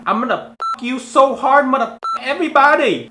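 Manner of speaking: high, loud mock Asian-Indian accent; Fat Dong accent impression. Vlogger as Fat Dong threatening everybody, in a loud mock accent. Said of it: "That almost sounds like Fat Dong's here".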